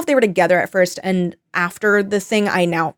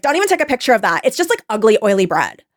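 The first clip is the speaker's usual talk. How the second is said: annoying influencer; faster than usual. Retold or imitated. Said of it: "everything she's saying is so fucking annoying".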